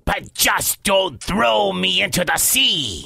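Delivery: lightly voiced pirate plea; pleading pirate. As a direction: coax the giant in pirate speech.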